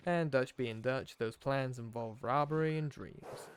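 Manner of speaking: lightly put-on outlaw accent for a journal; Arthur's put-on accent. Player reading Arthur's journal aloud, put-on accent. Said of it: "doing this accent".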